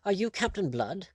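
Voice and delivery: high, astonished rising question; excited. A narrator's reading. Lord questioning the pirate's identity, excited. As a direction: ask it high, rising in amazement. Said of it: "exploded in excitement".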